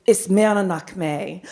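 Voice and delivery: "Is Meranakme" spoken slowly in Irish Gaelic; lilting irish storyteller. Shown as a demonstration. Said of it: "I can speak Irish".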